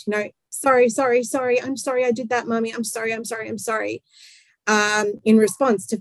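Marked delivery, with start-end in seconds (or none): 0.5-4.0 mock anxious apologising, softening towards the end; apologetic child. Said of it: "the child kind of works really hard".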